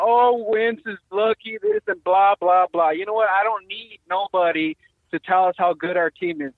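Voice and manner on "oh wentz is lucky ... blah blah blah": mocking whine. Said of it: "They keep crying about".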